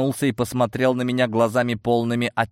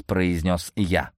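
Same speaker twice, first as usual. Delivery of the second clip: usual speaking voice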